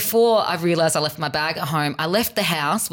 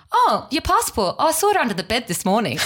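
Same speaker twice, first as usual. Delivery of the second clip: cheery friend; 6 semitones higher than usual. Retold or imitated. Retold friend's cheery remark.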